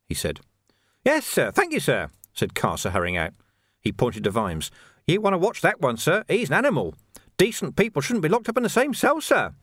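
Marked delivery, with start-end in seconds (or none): 1.0-2.1 much higher, oily servility; fawning crook. Acted. Carcer thanking the jailer, fawning and oily. 5.1-9.5 much higher, oily servility; fawning crook. Acted. Carcer thanking the jailer, fawning and oily.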